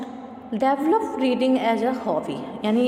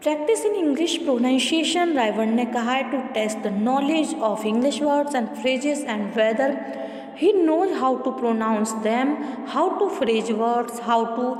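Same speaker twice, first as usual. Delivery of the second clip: measured, deliberate textbook read-aloud; steady classroom reading voice; much slower than usual. Acted. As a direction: read the passage out evenly for the class. Reads textbook passage aloud.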